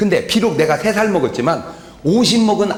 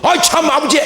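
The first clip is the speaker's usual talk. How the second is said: whining son; 9 semitones higher, 3 dB louder than usual. Acted. Son protests to father.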